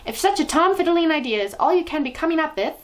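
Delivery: high, loud contemptuous thunder. A narrator's reading. Grand High Witch thundering at her cowering witches. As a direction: thunder your scorn. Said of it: "thundered the Grand High Witch".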